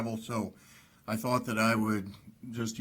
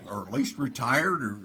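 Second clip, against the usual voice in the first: laughing quip; 3 semitones higher than usual. Retold or imitated. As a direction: let the laugh break into the line. Jokes about own award.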